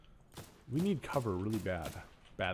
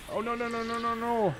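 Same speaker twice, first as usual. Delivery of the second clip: dismayed; 12 semitones higher than usual. Real, not acted. Accidental mistake in game.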